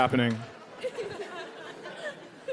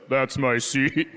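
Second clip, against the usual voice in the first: big man's slow low voice; 5 semitones lower, much slower than usual. Retold or imitated. Comic retells the giant cowboy claiming his seat, slow and low. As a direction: lower and slow, deliberate. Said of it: "And then he goes".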